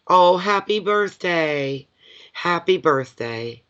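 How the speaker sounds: a slow, high, drawn-out "oh, happy birthday"; light up for her birthday; warm birthday greeting. Real, not acted. Reader greeting Nick on camera, slow and delighted.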